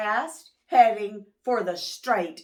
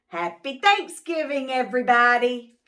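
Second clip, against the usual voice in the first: cheerful; 3 semitones higher, 6 dB louder, faster than usual. Acted. Turkey cheers.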